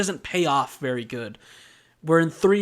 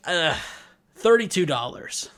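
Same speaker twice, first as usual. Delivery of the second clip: exasperated groan, then pitched-up answer; lots of attitude; 3 semitones higher than usual. Retold or imitated. Customer asked how much she paid, full of attitude. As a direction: imitate a customer put out by the question. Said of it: "she's giving me so much attitude".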